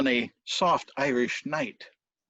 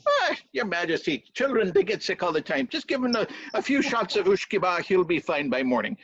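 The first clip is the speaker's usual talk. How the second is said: lightly voiced cheery servant; breezy servant; 3 semitones higher than usual. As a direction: wave the worry away in a lightly raised servant's voice. Servant waves away king's worry.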